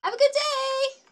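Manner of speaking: loud high "Have a good day"; high cheerful call. Real, not acted. Verabschiedet Zuschauer.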